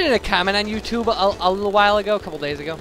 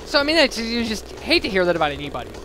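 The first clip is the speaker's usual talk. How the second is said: choked up; 4 semitones higher than usual. Real, not acted. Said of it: "now I'm getting all a little choked up".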